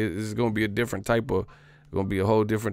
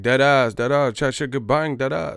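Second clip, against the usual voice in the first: loud mock London accent, higher; mock British slang; 4 semitones higher, 6 dB louder than usual. Mocking how Londoners talk, loud mock British accent. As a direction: bark it like a London roadman. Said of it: "they talking about, like".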